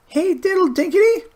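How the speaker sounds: very high, loud squeaky chant; high mouse chorus; tiny mouse voices. A narrator's reading. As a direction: squeak it back like cheeky mice. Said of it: "answered the little mice".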